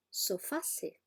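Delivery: "sofase" drawn out, with -se; false plural. Shown as a demonstration. Teacher showing the popular false plural. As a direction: say "sofase" slowly, with no final S. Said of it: "el plural de sofá será".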